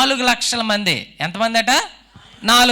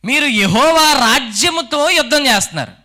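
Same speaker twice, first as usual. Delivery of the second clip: king's warning; 3 semitones higher than usual. Retold or imitated. Preacher voicing Abijah warning Jeroboam's army, firm and raised. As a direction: tell the enemy they fight God's kingdom, firmly. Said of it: "అంటున్నాడు".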